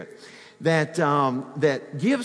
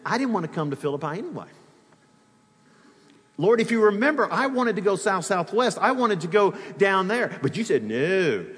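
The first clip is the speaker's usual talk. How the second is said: playful grumbling prayer; mock complaint; 3 semitones higher than usual. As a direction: complain to God like a sulking traveler. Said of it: "My response would have been".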